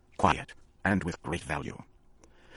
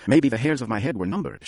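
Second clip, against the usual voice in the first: serious sweetness; 5 semitones higher, 4 dB louder than usual. A narrator's reading. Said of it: "with sudden serious sweetness".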